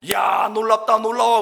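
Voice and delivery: high, loud mock amazement; excited retold wonder; amazed exclamation. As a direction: marvel out loud, hammed-up. Retold amazement at church revival.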